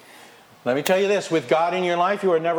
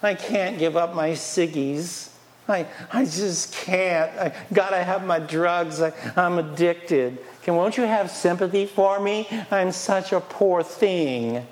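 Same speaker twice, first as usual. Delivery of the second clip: mock self-pitying addict, slow and drawn out; whiny excuses; 3 semitones higher, slower than usual. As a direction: play the pitiful excuse-maker, dragging the words. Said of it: "People say to me".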